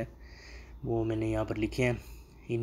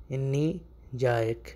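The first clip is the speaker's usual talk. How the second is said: whispered repeat; much slower than usual. Shown as a demonstration. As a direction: whisper انی جائک slowly, no voice. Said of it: "اس کو آپ عربی میں کیسے بولیں گے". (سرگوشی میں دہرانا)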